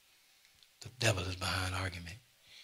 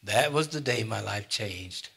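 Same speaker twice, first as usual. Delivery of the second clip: slow emphatic; 2 semitones higher, 5 dB louder than usual. Real, not acted. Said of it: "repeated line".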